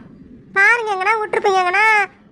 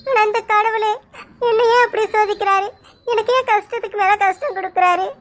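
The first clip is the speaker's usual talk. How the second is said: tearful. Acted. Girl lamenting to god.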